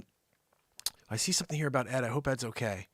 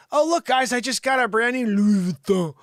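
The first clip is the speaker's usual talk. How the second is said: higher, louder mock bragging; proper show-off; 6 semitones higher, 5 dB louder than usual. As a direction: flaunt a French-sounding "Louis Vuitton". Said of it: "say properly".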